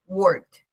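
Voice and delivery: worked como «workt», una sílaba; K y D fusionadas. Shown as a demonstration. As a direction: une la K y la D final de worked. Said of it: "Pero la K y la D". (worked sin E, con final fusionado)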